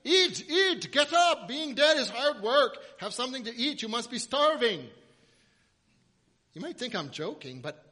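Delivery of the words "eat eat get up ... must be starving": much higher and louder fussing mother urging food; a doting Jewish mother pushing food. Pretend. Jesus as a Jewish mother telling the girl to eat, high and loud. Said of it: "Jesus is a good Jewish boy".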